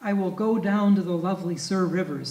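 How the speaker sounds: measured, grave reading of a poem; poetry reading. Acted. Lecturer reading Jeffers aloud to the audience, grave poetry reading.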